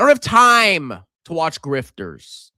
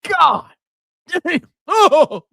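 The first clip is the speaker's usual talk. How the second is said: mock cold shock; 12 semitones higher, 4 dB louder, slower than usual. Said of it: "I'm like".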